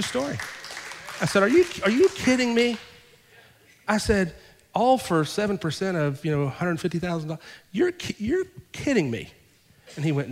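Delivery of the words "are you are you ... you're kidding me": high, disbelieving cry of amazement; can't believe his luck, pitched up; amazed disbelief. Retold or imitated. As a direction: stretch the disbelief out, higher. Neighbor offers to buy house.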